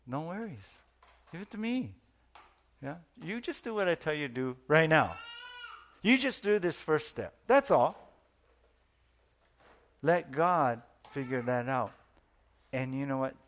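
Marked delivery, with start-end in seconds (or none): 0.1-11.9 God's reassuring voice. Acted. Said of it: "God's saying".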